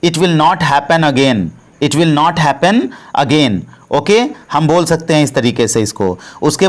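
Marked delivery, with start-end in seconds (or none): 0.0-3.6 very slow, every word laid out for learners; slow, careful model sentence; slow teaching demo. Shown as a demonstration. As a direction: spell it out slowly for the class. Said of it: "तो इसको हम English में बोलेंगे".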